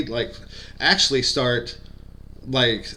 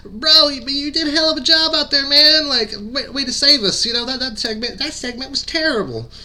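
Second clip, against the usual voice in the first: impression of a Southern redneck twang, much higher and louder; the speaker's redneck twang; 13 semitones higher, 5 dB louder than usual. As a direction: hype him up in a high, loud redneck twang. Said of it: "he's got a kind of a redneck twang to his voice".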